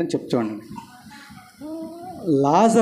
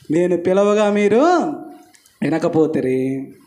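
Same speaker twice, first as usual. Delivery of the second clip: scripture quote. Acted. Preacher quotes scripture line.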